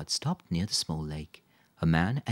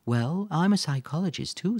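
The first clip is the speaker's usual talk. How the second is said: lightly voiced mother, pitched higher with a smile; 12 semitones higher, 5 dB louder than usual. A narrator's reading. Mother tells Quentin about her job, with a smile. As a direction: smile through the news. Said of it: "said Felicity with a smile".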